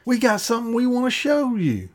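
mock yell. Philistines calling down to Jonathan, mild mock yell. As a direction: imitate yelling down, without real force. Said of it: "they yell down to him".

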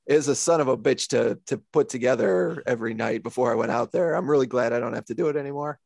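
put-on a weak, barely-there Irish accent quoting Sheamus; half-hearted Irish accent impression; bad Irish accent. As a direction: toss off a lazy Irish brogue for the wrestler. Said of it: "That was the worst Irish accent I've ever heard".

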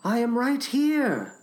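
lightly voiced frog; reassuring Frog. A narrator's reading. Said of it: "said Frog".

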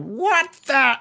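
high-pitched startled yell; Billy calling out. Acted. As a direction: cry out in alarm, cut off mid-phrase. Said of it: "Billy Goblin calling out".

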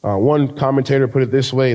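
ordinary delivery

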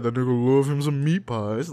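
lightly mocking echo of a friend; mocking repeat. Friend mocks how co-host praised meat pies, mocking repeat. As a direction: mimic his phrasing back at him. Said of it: "why you gotta repeat it like that".

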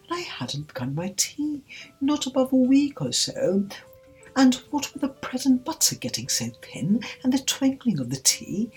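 high, nervous rambling; anxious high-pitched Hatter; trembling. A narrator's reading. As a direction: babble timidly in a high voice. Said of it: "began in a trembling voice".

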